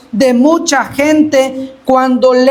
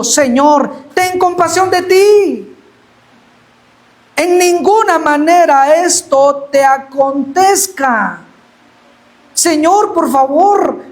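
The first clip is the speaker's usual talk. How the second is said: Peter protesting; 2 semitones higher than usual. Retold or imitated. Peter pleads with Jesus not to die, mild pleading. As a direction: beg him to spare himself, rising. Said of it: "Comenzó a reconvenirle, diciendo".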